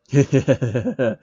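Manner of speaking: a short mocking villain laugh. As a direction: laugh off the killing blow. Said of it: "Heathcliff laughs at Phil".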